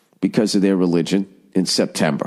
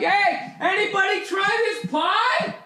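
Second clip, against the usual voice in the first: much higher, softer and slow, sweetly oblivious; oblivious peacemaker; 4 dB quieter, slower than usual. Pretend. Guest ignoring the family brawl, high sweet innocent voice. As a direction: float in innocently over the fighting. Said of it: "You can be in the background like".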